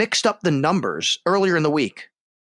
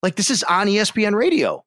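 retold bewilderment, pitched up; mildly acted disbelief, higher voice; baffled disbelief; 4 semitones higher than usual. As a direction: stammer it out, incredulous at what you're hearing. Retelling shock at impostor on air.

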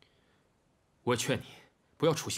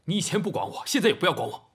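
louder, higher bitter reproach; angry retort; 5 semitones higher, 5 dB louder than usual. Acted. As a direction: throw it back at him. Son lashes back at father.

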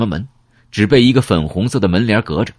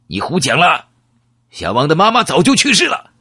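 sharp, higher accusing voice; guard turning hostile; 9 semitones higher than usual. Acted. Guard confronts the fake delivery man, accusing and higher. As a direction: call out the lie, suddenly suspicious. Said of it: "看守立刻变了脸色".

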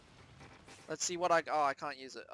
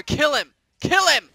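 rising shouts of kill him; egging the fight on loudly; loud urging; 5 semitones higher, 8 dB louder than usual. Real, not acted. Gamer yelling at his character to finish the kill.

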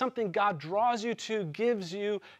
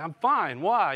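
louder, curt and defensive; defensive brush-off; 7 dB louder, slower than usual. Retold or imitated. Husband brushing off his wife's check-in, curt and defensive. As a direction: snap back that nothing is wrong. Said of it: "And I'm like".

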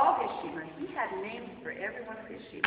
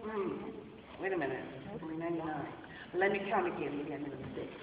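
puzzled shepherd; 9 semitones lower, 6 dB quieter, much faster than usual. Acted.

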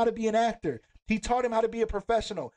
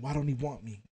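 soft, lower retelling of the plea; quiet quote; 5 semitones lower, 5 dB quieter than usual. Retold or imitated. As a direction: say it softly, almost to yourself. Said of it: "He said".

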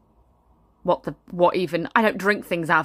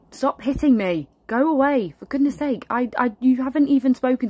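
louder, higher, exasperated brush-off; irritated; 5 semitones higher, 5 dB louder than usual. Acted. Mother snapping at her pestering son, irritated. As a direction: shoo the child away, fed up.

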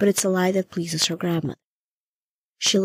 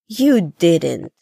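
pleased surprise; 8 dB louder than usual. Acted. Gran touched by the gift.

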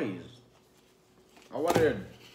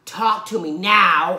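slower, louder "Talk to me now"; 4 dB louder, much slower than usual. Pretend. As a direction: stretch and push "now" louder. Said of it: "this makes me wanna do".

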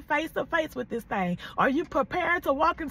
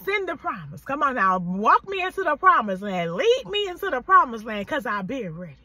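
fervent prayer; 4 dB louder than usual. Retold or imitated. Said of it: "I was like".

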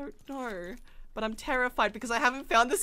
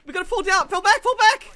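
loud urgent retreat call; shouting orders over battle; 7 semitones higher, 8 dB louder than usual. Real, not acted.

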